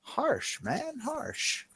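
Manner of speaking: muttered complaint. Acted. Reacting to being shown out.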